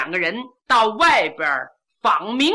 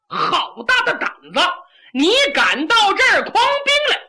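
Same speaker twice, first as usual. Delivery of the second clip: much higher, fast, furious scolding; angry rebuke; 7 semitones higher, 3 dB louder than usual. A narrator's reading. Meng Liang glaring at Kou Zhun, accusing him, angry and fast. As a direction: glare and tear into him. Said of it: "孟良把眼睛一瞪".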